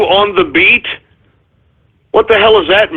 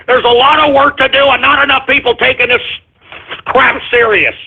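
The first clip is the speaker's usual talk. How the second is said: pissed-off repeat; 6 semitones higher than usual. Real, not acted. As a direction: hammer the point home, irritated. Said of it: "I'm just pissed".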